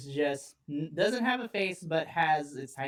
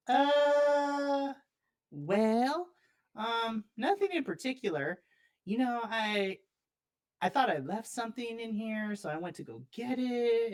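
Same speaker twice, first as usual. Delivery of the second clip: put-on higher, hesitant sheepish kid voice; sheepish boy excuses; 5 semitones higher than usual. Boy making excuses to his dad, sheepish and higher. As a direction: stammer out a guilty excuse.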